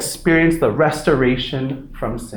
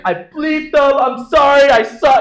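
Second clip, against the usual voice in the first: higher, louder blurted apology; frustrated outburst; 9 semitones higher, 4 dB louder than usual. Retold or imitated. Teen yelling back at mom, fed up and loud. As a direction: snap it out, fed up. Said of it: "I'm like".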